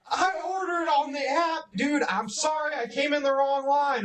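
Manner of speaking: mock high yelling. Retelling being stuck in the wrong drive-thru line, retelling yelling out the window. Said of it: "like yelling at him".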